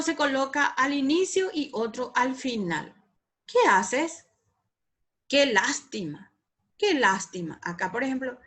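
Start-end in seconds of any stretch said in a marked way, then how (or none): 3.5-4.3 "Qué haces" asked as a clear question; question intonation. Shown as a demonstration. Teacher reading an example question to the class, questioning. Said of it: "Es muy importante cuando, el tono de voz". 5.3-7.6 "Qué lástima" exclaimed with a falling tune; exclamation intonation. Shown as a demonstration. Teacher showing the class an exclamation, regretful. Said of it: "Es muy importante cuando, el tono de voz".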